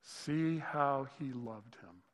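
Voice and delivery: "See how he loved him" stretched out slowly; slow tender read. Retold or imitated. Preacher reading the mourners' words about Lazarus, slow. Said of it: "the Jews said".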